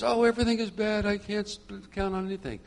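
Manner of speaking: imitating a woman almost in tears, lightly; near tears. Stressed woman complaining on the phone, mildly tearful. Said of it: "she's almost in tears".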